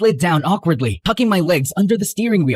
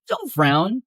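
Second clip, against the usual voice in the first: ordinary delivery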